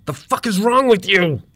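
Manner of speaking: high, loud enraged yell; screamed. A narrator's reading. Handyman screams at the door refusing to shut. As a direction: scream it at the stubborn thing, pitch way up. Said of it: "he screamed".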